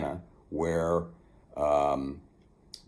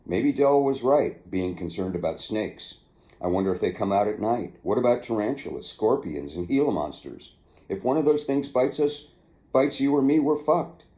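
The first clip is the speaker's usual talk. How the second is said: Willie's worried voice; 5 semitones higher, 4 dB louder than usual. Retold or imitated. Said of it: "said Willie".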